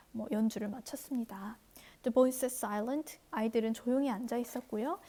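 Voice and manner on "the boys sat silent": very slow, deliberate English read-aloud. Shown as a demonstration. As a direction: read each word slowly for learners. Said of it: "reads the English text slowly".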